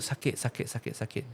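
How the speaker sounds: faint breathless whisper of pain. Acted. Dying parrot crying out under the cat's attack, fading pained whisper. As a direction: let it fade out weakly, hurt.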